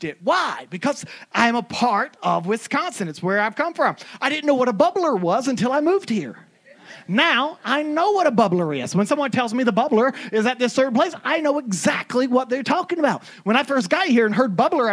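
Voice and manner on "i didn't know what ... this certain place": ordinary talk, nothing marked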